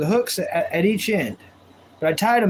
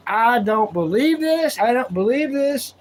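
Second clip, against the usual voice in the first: mock angry friend; 5 semitones higher than usual. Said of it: "He was mad".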